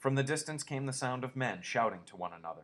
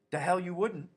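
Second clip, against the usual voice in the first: higher, louder scornful creature; scornful rabbit; 9 semitones higher, 7 dB louder than usual. A narrator's reading. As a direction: sneer it like a mean rabbit. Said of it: "said the rabbit".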